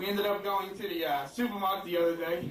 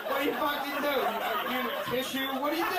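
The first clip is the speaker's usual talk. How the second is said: awkward bewilderment; 4 semitones higher than usual. Retold or imitated. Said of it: "guys, I feel awkward personally".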